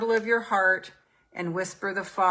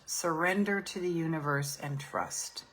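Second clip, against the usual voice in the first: surrender said much softer, almost hushed; softer repeat of surrender to the universe; soft mantra; 7 dB quieter than usual. Shown as a demonstration. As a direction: let the mantra sink down to a hush.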